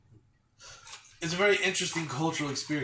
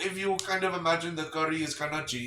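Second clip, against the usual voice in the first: mock Indian accent; 4 semitones higher, 4 dB louder than usual. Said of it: "do the accent".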